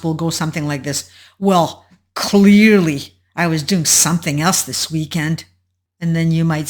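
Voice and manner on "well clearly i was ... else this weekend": mildly snippy, leaning hard on "clearly"; mock condescension. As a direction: act put out by a stupid question. Narcissist's snapping reply acted out.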